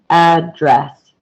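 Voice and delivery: "address" broken into AD-dress, stress on AD; two separate syllables. Shown as a demonstration. Teacher counting two syllables in "address", said syllable by syllable. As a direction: count out both syllables of "address", first one stronger. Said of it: "a total of two syllables".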